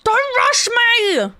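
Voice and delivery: high, drawn-out yell; stretched, high-pitched cry of protest; flustered protest. Real, not acted. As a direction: wail it out, really rattled. Flustered player protests being rushed.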